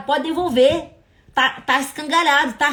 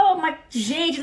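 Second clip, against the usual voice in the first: "ô, mas, gente" a little higher, for energy; added emphasis; 4 semitones higher, much slower than usual. Shown as a demonstration. Preacher showing harmless intonation, lightly emphatic "ô, mas, gente". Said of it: "pra dar uma entonação".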